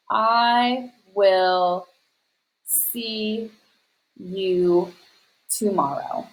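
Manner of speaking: very slow, long gaps between words; word-by-word dictation. Shown as a demonstration. Teacher writing an example for students, slow word-by-word dictation. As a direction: say each word as you write it out.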